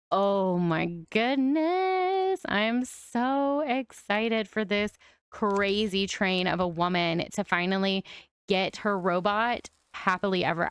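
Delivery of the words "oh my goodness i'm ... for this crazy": drawn-out excitement. Real, not acted. Gasps, excited about robot.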